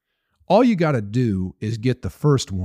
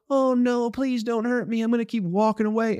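mock frightened pleading; 9 semitones higher than usual. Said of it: "Or are you gonna go".

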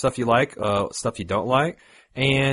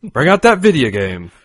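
put-on old man Hank Hill; 3 semitones higher, 8 dB louder than usual. Shown as a demonstration. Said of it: "that's old man Hank Hill".

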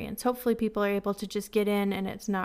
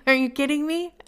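higher, incredulous mock outrage; incredulous disbelief; 5 semitones higher, 3 dB louder than usual. App says food ready hours after closing, incredulous. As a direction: toss it off in laughing disbelief. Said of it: "I was like".

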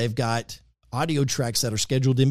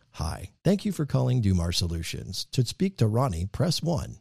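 smooth automated phone greeting; phone menu voice; 3 dB quieter than usual. Shown as a demonstration. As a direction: read it like a company phone line. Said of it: "this could be, like, as simple as".

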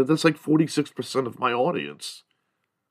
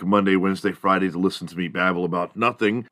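ordinary talk, nothing marked

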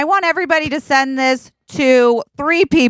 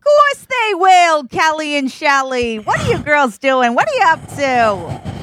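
a higher, lightly voiced Jersey girl greeting; 5 semitones higher than usual. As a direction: hail the girls like an old friend. Greets the fans in character.

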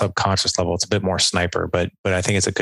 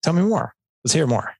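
inviting; 6 semitones higher than usual. Shown as a demonstration. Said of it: "the other one is an invite".

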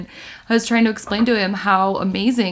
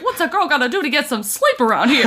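quick, higher silly princess quip, through laughter; mock Sleeping Beauty; 5 semitones higher, faster than usual. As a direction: toss it off as a joking princess complaint. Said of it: "one of us would be like".

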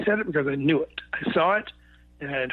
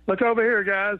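higher, louder call to the band; mocking call-out; 5 semitones higher, 3 dB louder than usual. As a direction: hollers to the band to come and mock the new guy. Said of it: "And he said".

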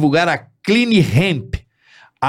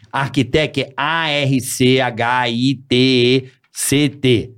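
slow, letter by letter; spelling it out; 3 semitones lower, slower than usual. Shown as a demonstration. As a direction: spell each letter deliberately. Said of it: "deixa eu soletrar".

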